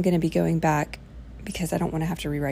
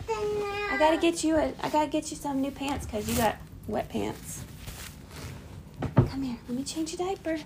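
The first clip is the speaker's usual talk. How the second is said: exaggerated cartoon intonation; 8 semitones higher, 4 dB quieter than usual. Real, not acted. Mother changing baby's diaper.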